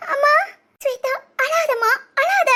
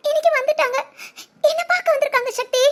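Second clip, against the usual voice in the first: laughing through tears. Acted. Tells husband parents came.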